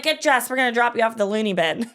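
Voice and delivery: joking dad. Retold or imitated. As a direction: tease like a jokester father. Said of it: "a major jokester".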